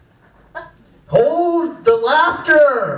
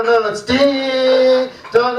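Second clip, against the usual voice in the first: slow, careful ding dong; corrected ding dong; 3 semitones higher, much slower than usual. Retold or imitated. Choir teacher showing the right words slowly. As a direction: spell out ding dong for the kids. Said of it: "No, no, no, close".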